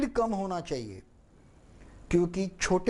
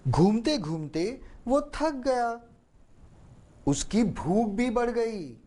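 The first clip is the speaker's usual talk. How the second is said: slow weary narration, slightly raised; tired voice; 4 semitones higher than usual. Shown as a demonstration. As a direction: drag out थक गया as if exhausted. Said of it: "बोलने में वो थकान आनी चाहिए".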